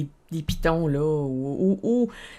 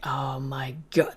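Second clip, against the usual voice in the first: 1 awed oh my god; 6 semitones lower, 6 dB quieter, slower than usual. Retold or imitated. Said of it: "je vais avoir la même réaction".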